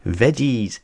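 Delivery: excited. A narrator's reading. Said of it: "gasped Peppa excitedly".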